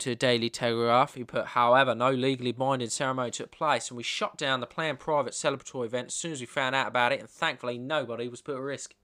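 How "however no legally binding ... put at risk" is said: light posh Australian statement voice; a hint of a posh Sydney dad; posh Australian accent. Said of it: "That was quite good".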